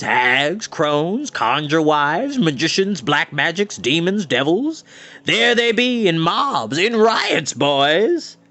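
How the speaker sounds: put-on old Mountrout showing witches. Mountrout calling the boys to look, showman voice.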